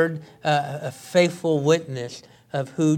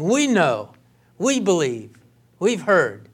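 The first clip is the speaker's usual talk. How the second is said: we know, we believe, we've heard, each we pushed louder; emphatic proclamation; 2 semitones higher, 5 dB louder than usual. Shown as a demonstration. Samaritans declaring their faith, voiced louder. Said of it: "it's like shouting".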